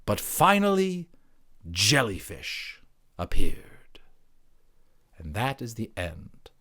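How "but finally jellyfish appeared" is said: slow hushed reveal after a high build; proud climax. Acted. Creature proudly revealing jellyfish as the climax, slow and hushed. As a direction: deliver the punchline with pride. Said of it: "turning quite pink with pride".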